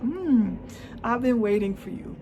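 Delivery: high, loud drawn-out "I've been waiting for you"; knowing villain. Pretend. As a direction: play it like a villain who expected this. Repeats the villain line.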